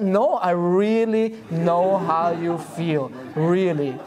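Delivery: slow, earnest, every word meant; sincere insistence. Retold or imitated. Husband to wife who doubts him, slow and sincere. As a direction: convince her you truly mean it. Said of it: "You just say it." I said".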